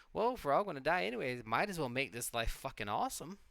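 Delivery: fast, loud, eager push; upbeat. Pretend. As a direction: sell it with excitement. Voicing a positive view.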